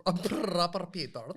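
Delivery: proper British reality-show lad; Love Island British accent. Retold or imitated. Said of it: "the Love Island one?".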